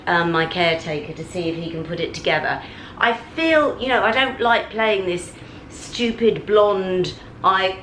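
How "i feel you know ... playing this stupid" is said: frustrated. Real, not acted. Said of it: "I've lost my temper".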